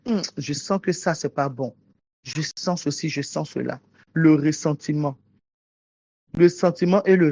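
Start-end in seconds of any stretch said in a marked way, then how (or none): 0.1-3.8 murmured inner thought. Acted. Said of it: "Tu t'assois quand tu dis".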